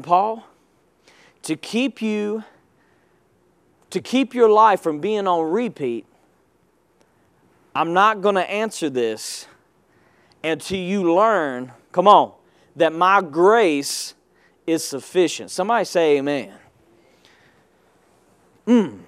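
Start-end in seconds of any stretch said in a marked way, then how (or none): 0.0-11.7 soft, low, unhurried divine voice; hushed lower voice of God. Retold or imitated. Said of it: "So God was saying". 12.8-15.5 soft, low, unhurried divine voice; hushed lower voice of God. Retold or imitated. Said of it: "So God was saying".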